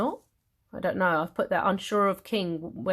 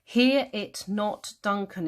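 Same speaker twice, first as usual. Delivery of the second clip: commanding; 2 semitones higher, slower than usual. Acted. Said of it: "Is he commanding him there?".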